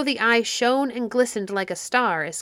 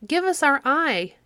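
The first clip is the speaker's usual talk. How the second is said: frightened plea; 7 semitones higher, 3 dB louder than usual. A narrator's reading. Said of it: "they were terribly frightened".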